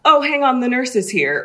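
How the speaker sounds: imitating a parent. Caller voices patients' parents.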